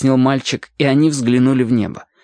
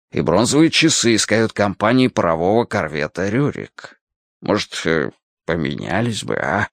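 put-on hesitant old sailor; 2 semitones lower than usual. Sailor offers Alyoshka a trade for the ship, hesitant. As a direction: make the offer awkwardly, voice dropping off.

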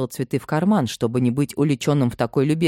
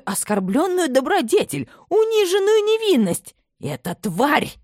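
much higher, shrieking rage at a rival; a mother's outraged rant, pitched high; furious tirade; 9 semitones higher than usual. A narrator's reading. Mother rages to her son about the girl, much higher.

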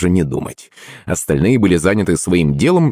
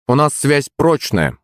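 high, slow, light assurance; unhurried, smiling reply; 7 semitones higher than usual. A narrator's reading. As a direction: say it with a smile, pitched up. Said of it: "улыбнулся я".

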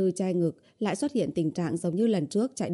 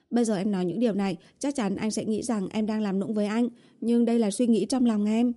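lightly voiced girlfriend, a bit higher; earnest coaxing heroine; 3 semitones higher than usual. Girlfriend admits her feelings to boyfriend, mildly earnest. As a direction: confess it sincerely, a touch pleading.

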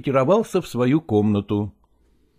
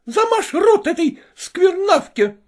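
shouted. Acted. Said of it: "кричала Копровская Лагорскому".

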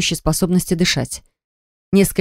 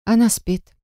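with a sigh; 4 semitones higher, slower than usual. A narrator's reading. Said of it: "ответила Аня со вздохом".

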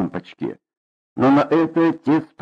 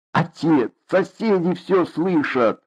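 tearful plea; 5 semitones higher, slower than usual. Acted. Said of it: "плакала мать".

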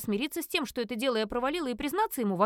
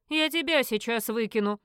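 stern threat; 4 dB louder than usual. Acted. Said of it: "Грозно припечатал Кьяри".

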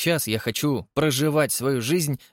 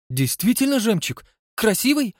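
much higher breathless curiosity; eager; 11 semitones higher, 3 dB louder than usual. Acted. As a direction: gush over pearls. Eager Mary Lou. (восторженно, очень высоко)

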